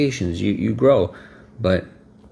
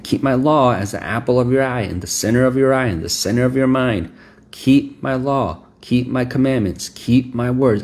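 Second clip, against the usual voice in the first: a touch higher, pressing each keep firmly; earnest, mildly stern repetition; stern emphatic father; 4 semitones higher than usual. Retold or imitated. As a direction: insist like a stern father repeating himself. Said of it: "he's so stern".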